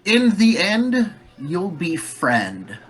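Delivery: cackling hag, slowing at the end; lightly voiced hag with a laugh. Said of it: "points at Flint and says".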